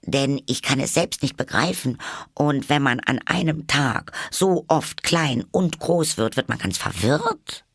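high, quick, courteous voice; very polite Alice. A narrator's reading. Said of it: "erwiderte Alice sehr höflich". (sehr höflich, mit hoher Stimme)

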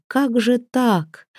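slow, stunned question; disbelief. A narrator's reading. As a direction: ask it slowly, in disbelief. Torbrand's stunned inner question.

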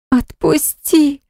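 high, slow pleading moan; a drawn-out whimpering let me go; moaning plea. A narrator's reading. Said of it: "простонала она".

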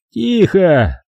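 sharp hush. A narrator's reading. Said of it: "оборвал её Фрэнк".

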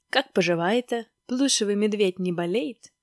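put-on lightly Georgian-accented Stalin. Stalin asks after the bear, Georgian accent. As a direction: make small talk in a Georgian accent. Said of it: "с грузинским акцентом засмеялась трубка".

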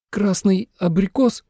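high, slow, hesitant guess; unsure girl. A narrator's reading. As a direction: correct yourself doubtfully. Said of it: "неуверенно исправилась она". (неуверенно, медленно)

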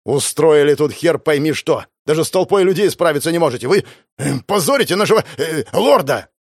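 furious superior berating cultists; angry scolding. Acted. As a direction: chew them out like a boss. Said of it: "гаркнул я".

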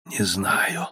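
put-on wounded Egor answering the boy, barely audible. A narrator's reading. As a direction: scarcely get the words out. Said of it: "еле-еле проговорил Егор".

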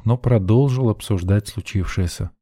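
ordinary delivery, nothing marked

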